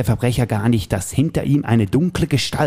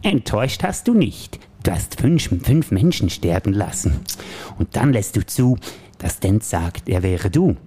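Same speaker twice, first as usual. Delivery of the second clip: Joker voice; slower than usual. Acted. Plays the Joker in the scene.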